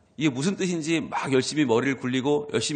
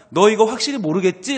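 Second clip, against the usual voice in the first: a higher, louder check-in question; mild angel voice; 6 semitones higher, 6 dB louder than usual. Acted. (천사가 확인하듯 높고 크게)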